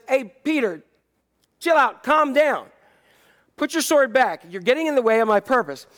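Jesus telling Peter to chill out; calming Jesus. Acted. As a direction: settle him down like a patient teacher.

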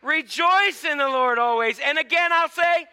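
gladly proclaimed scripture; happy. Shown as a demonstration. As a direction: say it like you're happy. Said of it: "Say that like you're happy".

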